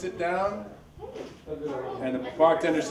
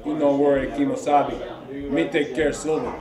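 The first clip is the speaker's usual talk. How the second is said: Tonto voice; 3 semitones lower than usual. Retold or imitated. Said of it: "Tonto says".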